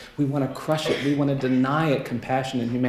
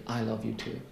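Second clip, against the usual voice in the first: softly retold whisper; 3 semitones lower, 10 dB quieter than usual. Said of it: "whispered in my ear".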